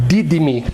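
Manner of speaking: Dídime with stress on the first syllable Dí; Greek stress. Shown as a demonstration. Teacher marks the strong syllable of Dídime. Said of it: "Essa é a sílaba mais forte".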